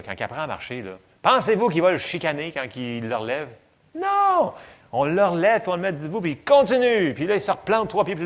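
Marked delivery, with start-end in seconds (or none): 3.9-4.5 much higher, louder "Non!"; preacher's ringing no; emphatic no. Real, not acted. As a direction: shout the answer to the room. Rhetorical answer to congregation.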